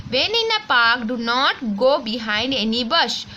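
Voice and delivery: put-on slow, careful textbook reading for children; reading aloud slowly. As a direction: read each word clearly for the class. Reads the rhyme lines slowly. (बच्चों के लिए धीरे-धीरे पढ़ना)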